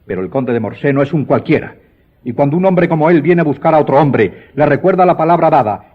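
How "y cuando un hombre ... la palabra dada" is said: higher and louder, building anger; rising indignation. Acted. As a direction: press him harder with each phrase. Count confronting the baron over promise. (indignación creciente, más aguda y fuerte)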